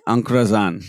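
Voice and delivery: UN CROISSANT lento, "an cruasán"; francés de español. Retold or imitated. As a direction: say "un croissant" slowly, in Spanish-accented French. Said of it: "no me va a salir muy bien". ("un croissant" despacio, con francés españolizado)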